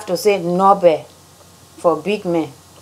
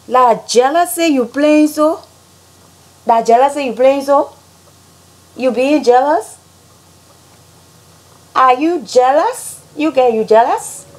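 higher, teasing Liberian English; Liberian accent; 5 semitones higher than usual. Shown as a demonstration. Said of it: "how Liberians say things".

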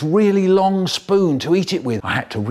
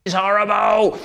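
put-on child's wail; 7 semitones higher, slower than usual. Child wails at dad.

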